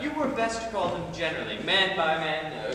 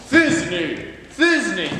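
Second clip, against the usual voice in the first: calling out; 6 dB louder than usual. Acted. Bottom calls out for Thisbe.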